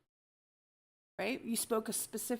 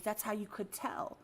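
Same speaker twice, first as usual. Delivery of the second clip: whisper; 6 dB quieter than usual. Real, not acted.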